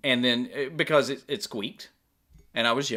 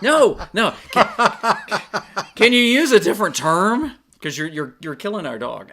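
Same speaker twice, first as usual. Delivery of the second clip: raised, louder mock plea to stop; mock pleading; 9 semitones higher, 8 dB louder than usual. Owners begging the kitchen guy, mock plea. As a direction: beg him half-joking to change the word. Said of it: "It's like".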